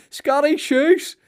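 very high, slow, drawn-out nickname; announcing the nickname. Retold or imitated. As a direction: stretch out the nickname like a big reveal. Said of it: "punchline of the nickname".

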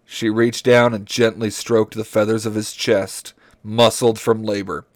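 measured, deliberate reading aloud; story narration. Acted. Host reads dinosaur romance to friends, story narration. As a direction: read each phrase out carefully.

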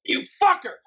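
high, startled mock insult; shocked outburst. Real, not acted. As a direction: blurt it out in surprise. Reacts to shocking no-cons joke.

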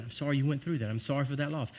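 mild hushed sympathy; soft condolence. Retold or imitated. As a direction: say it gently, like at a funeral. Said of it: "It's typical".

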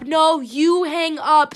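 slow, loud teasing insistence; drawn-out playful protest. Pretend. Host dragging out a lovey phone goodbye, slow teasing protest. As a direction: stretch out the playful comeback. Mock lovers' goodbye, second round.

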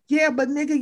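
ordinary talk, nothing marked

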